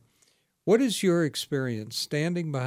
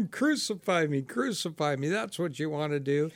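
mild mock yell, pitched up; half-voiced yell of a protester; retold heckler's yell; 3 semitones higher than usual. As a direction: imitate a heckler's outcry without full volume. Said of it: "he stood up in the middle and he yelled".

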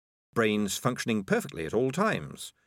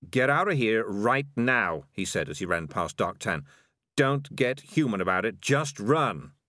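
urgent warning. Acted. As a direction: order them out, fast escape at stake. Cat ordering others to flee danger.

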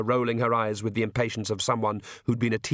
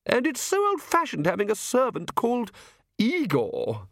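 high aristocratic lady voice, complaining; high-voiced, exasperated Countess; Countess, irritated; 12 semitones higher than usual. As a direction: raise the pitch for an indignant wife. Countess voiced, complaining about servant.

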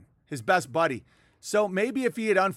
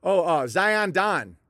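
low energy jab; slower than usual. Shown as a demonstration. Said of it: "low energy jab".

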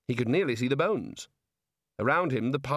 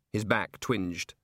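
ordinary delivery

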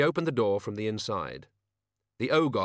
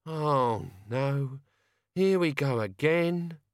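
high, slow groan of dismay; resigned old grumbler; exasperated old man; 4 semitones higher, much slower than usual. A narrator's reading. Albert exasperated.

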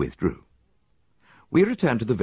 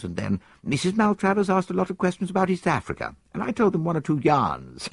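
put-on higher, quick eager young man's voice; young soldier; 10 semitones higher than usual. Soldier answers the detective, higher and quick. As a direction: play the keen young officer, pitched up.

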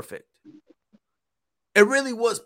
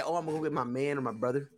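mocking girl; 6 semitones lower, 8 dB quieter, faster than usual. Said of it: "I hate those females that say".

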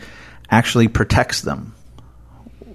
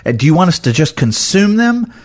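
indignant rant. Retold or imitated. Disciples scolding the Samaritans who rejected them, mild angry rant. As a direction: lean on each word like an offended disciple. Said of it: "They're so angry".

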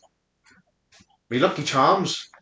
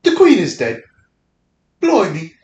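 mock African British accent. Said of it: "That's my African British".

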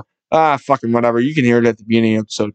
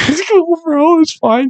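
much higher, squealed through laughter; laughing reassurance; slower than usual. Real, not acted. Host forgives the scream in his house, laughing reassurance. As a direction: laugh it off in a high voice.

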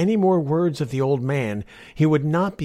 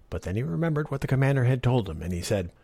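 usual speaking voice

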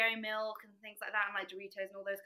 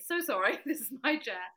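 higher, louder laughing apology; a hint of an awkward apology; polite apology; 4 semitones higher, 6 dB louder than usual. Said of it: "Classic me".

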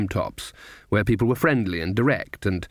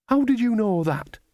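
surprised; 10 semitones higher than usual. Acted. Nanny surprised at Granny.

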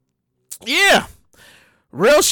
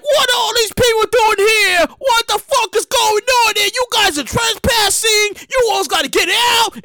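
angry owner; 5 semitones higher than usual. Retold or imitated. Mansion owner yelling at the wedding crowd to leave. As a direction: throw them out of your house.

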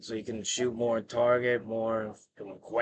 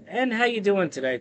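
wrestling hype guy; 7 semitones higher than usual. Retold or imitated. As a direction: call out like a ring announcer. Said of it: "and then like".

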